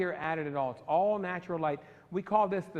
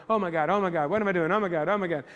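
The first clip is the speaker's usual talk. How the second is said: louder, frantic inner panic; mock panic; 5 dB louder, faster than usual. Photographer panicking inside, swimming like a duck, in louder mock panic. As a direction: spiral into mock alarm. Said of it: "but your legs are going".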